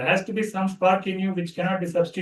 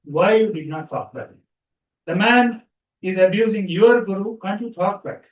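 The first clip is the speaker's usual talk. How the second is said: retold scolding; 2 semitones higher, 4 dB louder than usual. Guru rebukes disciple for not defending him, mock scolding. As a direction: act out an indignant telling-off, not full anger. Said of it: "the guru scolded him, saying".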